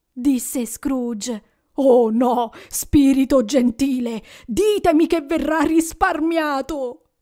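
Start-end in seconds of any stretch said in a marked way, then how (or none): 1.7-7.1 desperate plea. Acted. Scrooge pleads for the child.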